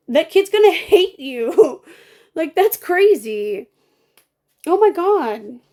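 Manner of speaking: high, loud laughing disbelief. Real, not acted.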